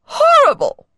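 very high, loud disgusted shriek. Acted. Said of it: "she cried".

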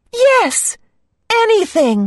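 a desperate cartoon princess. A narrator's reading. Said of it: "the princess answered".

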